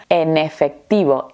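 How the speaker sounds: EN EFECTIVO joined as "e-nefectivo"; mots liés. Shown as a demonstration. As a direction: carry the N of "En" into "efectivo". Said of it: "lo vamos a unir todo junto".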